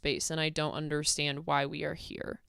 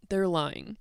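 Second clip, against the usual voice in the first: whispered; 4 dB louder than usual. Acted. Whispered then repeated.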